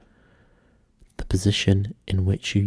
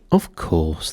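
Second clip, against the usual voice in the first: grave; 3 semitones lower than usual. Acted. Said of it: "the dodo replied very gravely".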